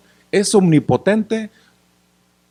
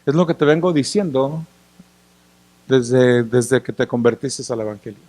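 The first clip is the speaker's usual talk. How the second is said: God speaking; 4 semitones lower than usual. Retold or imitated. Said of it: "Es como si Dios te dijera".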